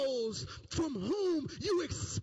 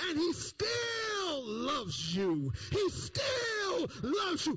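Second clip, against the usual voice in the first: higher, slow, crying out He still loves you; passionate preaching climax; 5 semitones higher, slower than usual. Real, not acted. Preacher to congregation, slow impassioned cry. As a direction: pour your heart into every word.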